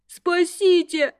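slow, high panicked plea; high cry for help. A narrator's reading. Terrified student crying out to be saved, slow high wail. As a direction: wail for rescue. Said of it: "истошно завопил тот".

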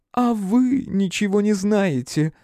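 high, slow scornful female voice; taunting woman. A narrator's reading. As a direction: sneer it at him. (насмешливо, высоким женским голосом)

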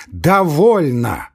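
gasping it out while leaving; breathless repeat. Acted. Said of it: "задыхаясь и беря фуражку".

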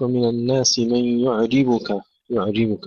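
يعجبك with the ع flowing, no bounce; smooth ayn. Shown as a demonstration. Teacher modelling for students, smooth ayn in يعجبك. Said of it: "والعين أيضًا فيها رخاوة".

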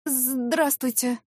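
slow, faltering hello; timid greeting. Acted. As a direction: greet him weakly, legs giving way. Weak greeting to angry boss. (робко, медленно)

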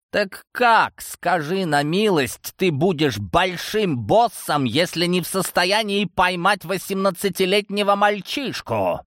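high, slowed furious roar; enraged father roaring. Acted. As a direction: bellow the question at him. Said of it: "Взревел".

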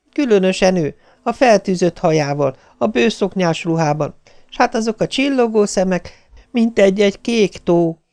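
high, wistful reminiscing voice; nostalgic. A narrator's reading. Wife recalls the young people's looks to her husband, nostalgic. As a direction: dwell fondly on each detail, voice lifted. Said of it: "Most nosztalgikus volt".

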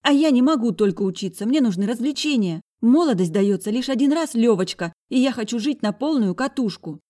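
put-on high, loud defiant girl's voice; high loud defiant sister; angry girl. A narrator's reading. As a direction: tell him he's not the boss.

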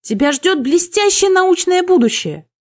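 high, loud desperate plea; panicky shriek. A narrator's reading. Никсар begs the succubus to stay, panicky. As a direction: call out pleadingly, panic in the voice. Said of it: "заверещал Никсар с отчётливой панической ноткой".

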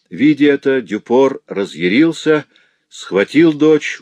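building to the attack; rising alarm. A narrator's reading. Narrator telling the husband's attack, rising alarm.

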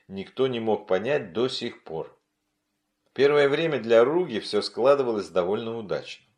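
usual speaking voice

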